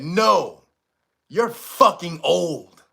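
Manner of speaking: slow, deadpan verdict; blunt lady. Retold or imitated. Aura reader telling him bluntly, slow and deadpan. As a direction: drag out each word flatly. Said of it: "Like that".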